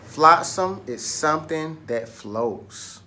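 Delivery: Flotsam is something that floats, said slowly for repeating; slow choral model. Shown as a demonstration. Teacher leading the class in a slow echo of the definition. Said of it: "Say it with me".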